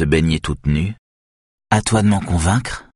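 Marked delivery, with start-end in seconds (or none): 1.7-2.9 ton malicieux. Acted. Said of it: "d'un ton malicieux".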